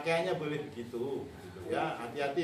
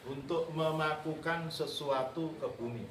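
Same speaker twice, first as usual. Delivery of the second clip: slow dictation; 4 dB quieter than usual. Real, not acted. Repeating the dictation for students.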